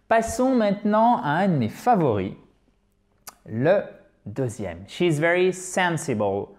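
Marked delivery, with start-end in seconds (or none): 5.5-6.5 "sensible" with SEN stressed; English "sensible", SEN strong, ending light; stress on first syllable. Shown as a demonstration. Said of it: "Accent tonique sur la première syllabe".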